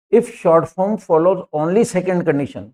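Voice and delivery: slow dictation. Shown as a demonstration. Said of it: "reading the rule aloud again".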